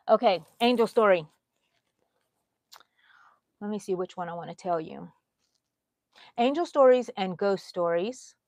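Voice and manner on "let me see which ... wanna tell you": whisper. Real, not acted. Thinking aloud to herself.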